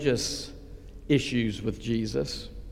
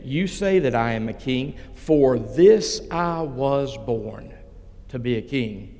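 Jesus, very bold. Acted. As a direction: answer with measured, understated boldness. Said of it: "Jesus answered very boldly and said".

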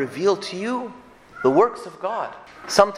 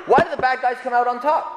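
"Why" lifted higher, rising at the end; higher, pleading question; 6 semitones higher, faster than usual. Shown as a demonstration. Preacher echoing Habakkuk's complaint, higher and pleading. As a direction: ask it again, higher and pleading.

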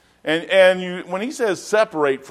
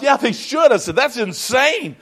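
laughing disbelief; 10 semitones higher, 4 dB louder than usual. Retold or imitated. Joking about retiring to Dayton.

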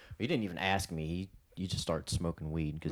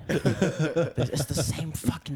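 exasperated; 9 semitones higher, 6 dB louder, slower than usual. Real, not acted. Exasperated rant.

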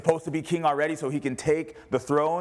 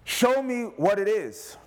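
prayerful plea; 8 semitones higher, much slower than usual. Retold or imitated. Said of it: "before you show up to the park".

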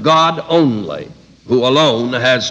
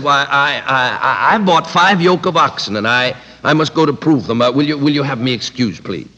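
stammering excuse. Retold or imitated. Second guest stammers excuse.

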